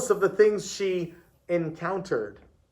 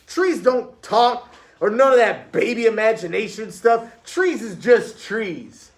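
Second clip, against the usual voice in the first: loud, higher-pitched protest; scoffing pupil; 6 semitones higher, 5 dB louder than usual. A narrator's reading. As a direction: dismiss it loudly, dragging out the ending.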